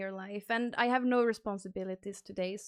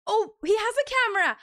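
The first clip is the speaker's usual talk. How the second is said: surprised gasp; 8 semitones higher, 6 dB louder than usual. Real, not acted. Surprised the guest's camera works.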